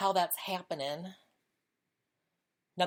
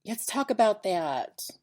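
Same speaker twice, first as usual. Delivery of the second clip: louder, slower Let's talk about that; keen gossipy relish; eager; 4 semitones higher, 5 dB louder than usual. Real, not acted. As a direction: savor the invitation, drawn out.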